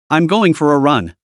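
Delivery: forced out through clenched teeth; through gritted teeth. Acted. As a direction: squeeze the words out through the teeth. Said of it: "practically gritted her teeth to get the words out".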